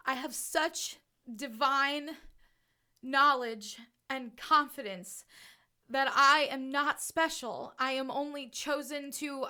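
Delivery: emotional conviction, broken up by pauses. Real, not acted. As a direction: declare it while moved, phrase by phrase. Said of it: "I'm so emotional".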